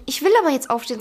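leicht genervter Schlaftrunkener; genervt nachgemacht. Retold or imitated. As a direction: trotziges Beharren nur andeuten. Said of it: "Sagt richtig genervt auch". (leicht genervt nachgeäfft)

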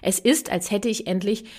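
upbeat sponsor read. Acted. Podcast host reads a sponsor ad, upbeat. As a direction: sell the app cheerfully.

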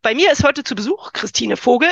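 nasal voice from a cold; stuffy nose. Real, not acted. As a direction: talk with a blocked nose. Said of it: "ich bin ein bisschen erkältet".

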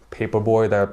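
choking mid-sentence; catching in the throat. Real, not acted. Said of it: "I'm sorry, I'm choking up a little bit".

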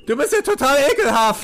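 high, appalled cellmate; disgusted prisoner. Acted. Prisoner learning it is human meat, appalled. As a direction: recoil in open disgust.

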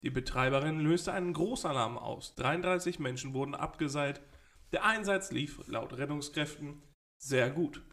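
reading the news like an anchor; formal newsreader delivery. Acted. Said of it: "dass du jetzt irgendwie die Nachrichten vorliest".

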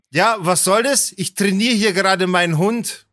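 lightly voiced affronted retort; mildly indignant. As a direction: imitate an annoyed owner justifying themselves. Retold indignant dog owner, first take.

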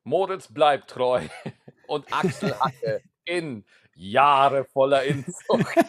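lightly voiced promo announcer; movie trailer voice. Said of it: "Trailerstimme von der A R D". (gemächliche Trailerstimme eines Fernsehsenders)

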